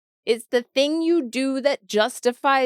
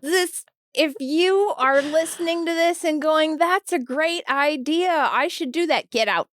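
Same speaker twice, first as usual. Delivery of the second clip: agitated outburst; 4 semitones higher than usual. Real, not acted.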